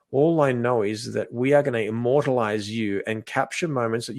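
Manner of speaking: low, unhurried heart-to-heart with a tired groom; earnest, measured persuasion. Shown as a demonstration. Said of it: "I'll say it a bit slower".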